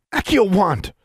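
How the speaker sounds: high, loud summoning command; called-out spell. Acted. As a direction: call the spell out sharply. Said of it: "said the redhead".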